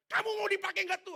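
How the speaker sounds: high, loud scolding bark; harsh mentor yell. Retold or imitated. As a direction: yell at the trainee like a furious mentor. Ngomongnya kasar banget.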